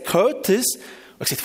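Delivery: normal talking voice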